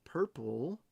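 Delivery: breathy whispered purple. Real, not acted. Whispering the purple parallel to viewers on stream. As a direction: hush the word like a secret. Whispering a rare color pull.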